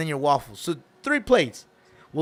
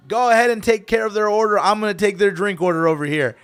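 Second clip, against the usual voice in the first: taking charge; 3 semitones higher, 5 dB louder than usual. Retold or imitated. Customer takes charge as manager.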